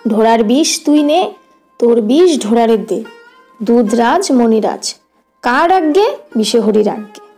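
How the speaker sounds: lightly incantatory spell recitation; snake charmer's mantra. Acted. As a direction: recite the charm in short, measured phrases. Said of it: "মন্ত্রটা কি জানেন?". (সাপুড়ের মন্ত্র আবৃত্তি)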